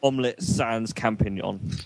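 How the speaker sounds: careful demonstration. Shown as a demonstration. Showing the correct three words.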